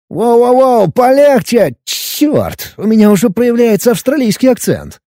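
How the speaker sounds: alarmed cry while the machine jerks forward; startled outburst. Acted. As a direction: blurt it out, caught off guard. Startled outburst at lurching drone.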